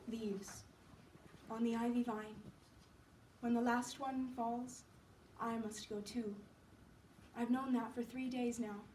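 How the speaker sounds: soft, listless invalid; weak Johnsy. Acted. Sick Johnsy watching leaves fall, faint and resigned. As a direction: speak faintly, with little energy left.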